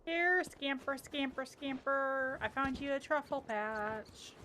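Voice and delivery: high, slow sing-song call to a pet; coaxing pet call. Real, not acted. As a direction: coax the dog over sweetly. Calling the pet dog over.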